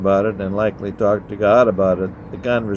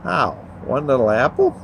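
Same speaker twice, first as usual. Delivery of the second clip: high, pitched-up plea; pleading; 4 semitones higher than usual. Acted. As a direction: plead in disbelief over one apple. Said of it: "Eve pleads".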